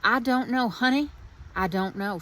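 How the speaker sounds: lightly put-on Southern accent, lifted in the middle. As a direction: quote the aunt in a playful Southern accent. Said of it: "my very best Southern accent".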